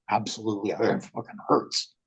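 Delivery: strained, breathy whisper through the pain. Retold or imitated. Answering the doctor during the painful procedure, strained whisper. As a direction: squeeze the words out as if hurting.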